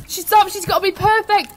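high, loud desperate cries; frantic shouting. Acted. Patricia calling desperately for Tim, frantic shouts. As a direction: yell for Tim in panic.

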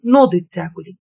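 understated cool order; a touch of coldness in the narrated command; cold. A narrator's reading. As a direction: say it coolly, only slightly detached. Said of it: "وقال لي ببرود".

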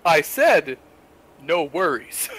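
deliberate American "No worries", covering the Kiwi slip; corrected, over-careful American accent; faux American accent. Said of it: "faux Western accent, their American accent".

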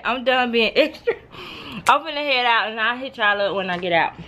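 ordinary talk

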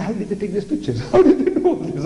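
amazed question breaking into laughter; laughing amazement. Retold or imitated. Recalling his first King Kong film, laughing amazement. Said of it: "I said".

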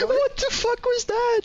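high, laughing shriek; laughing disbelief. Real, not acted. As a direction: laugh out the question. Stunned by sudden play.

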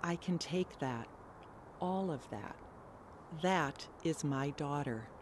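soft, shaken and fragile; barely holding together, quietly. Acted. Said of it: "in a shaken voice said".

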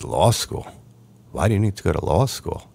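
retold disbelief, rising high at the end; incredulous questioning. Dad reacting to son's law school plan, incredulous. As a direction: question it as a taken-aback father would.

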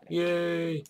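high cheerful cheer; excited. Real, not acted. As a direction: cheer in triumph. Celebrating the kill.

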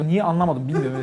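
ordinary talk

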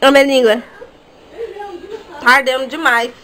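loud, mouth on fire from ginger; mouth burning from spicy food. Real, not acted. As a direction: talk through a burning mouth. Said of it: "A boca tá pegando fogo".

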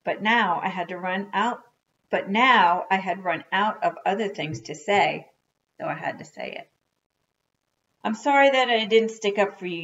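lively read-aloud to children, with acted dialogue; story narration. A narrator's reading.

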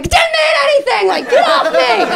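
very high squealing mock brush-off, laughing; hammed-up awkward morning-after jock; embarrassed jock. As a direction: shove them away, squealing and giggling. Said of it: "like a jock who slept with you".

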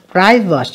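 private, with the first syllable stressed. Shown as a demonstration. Teacher showing students where private is stressed, first-syllable stress. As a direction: hit the opening syllable of private, let the second drop. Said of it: "nhấn âm đầu".

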